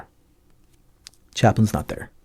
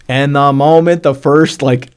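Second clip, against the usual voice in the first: raised, louder voice, welling up; real emotion rising as you tell it; close to crying; 4 semitones higher, 5 dB louder than usual. Real, not acted. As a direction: slowly push the words out, near tears. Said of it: "I'm gonna cry right now".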